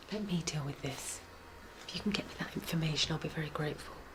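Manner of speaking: very soft whisper. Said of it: "What were you whispering about?".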